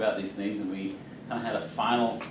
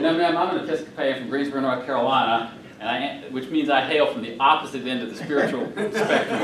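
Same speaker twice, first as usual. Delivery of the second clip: laughing; 3 dB louder than usual. Real, not acted. Laughing at his own joke.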